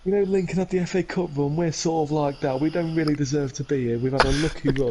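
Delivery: humble coach. Retold or imitated. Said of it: "And he was like".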